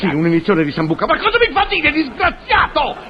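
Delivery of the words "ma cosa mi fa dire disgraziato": exasperated. Acted. Doctor tricked into saying sambuca.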